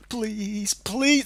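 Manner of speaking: imitated pleading, rising on the repeat; mock begging. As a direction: plead like they did, mockingly. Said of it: "They were begging me".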